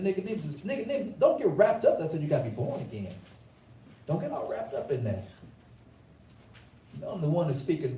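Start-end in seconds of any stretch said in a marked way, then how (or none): 0.0-2.0 quick warning. Retold or imitated. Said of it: "So I said".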